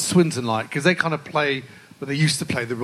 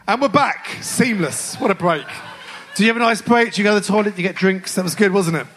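excited; 6 semitones higher than usual. Real, not acted. Host returns joking after ad break.

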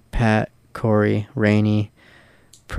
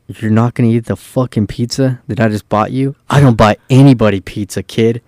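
retold scolding; 4 dB louder than usual. Retold scolding over refused pizza.

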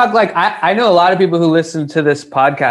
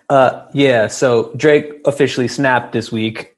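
stiff prompter read; 3 semitones lower than usual. Retold or imitated. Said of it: "reading the prompter".

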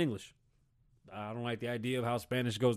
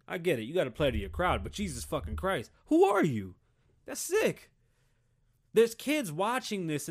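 ordinary talk, nothing marked

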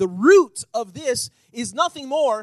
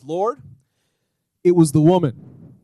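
sudden loud whine, it was the woman; Adam pointing the finger, loud; acted Adam excuse; 4 semitones lower, 8 dB louder than usual. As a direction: blurt the blame out loud. Adam blaming Eve, acted.

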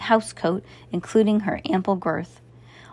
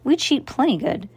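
cheeky clown; 6 semitones higher than usual. Acted. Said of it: "agreed Maury".

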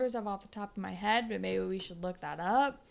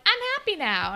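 mock blissful voice; 11 semitones higher, 9 dB louder than usual. Voicing the character again.

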